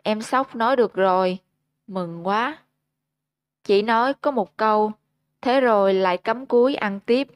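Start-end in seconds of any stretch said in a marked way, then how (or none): 0.0-2.6 shy smiling reply. Acted. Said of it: "Gấu cười bẽn lẽn nói".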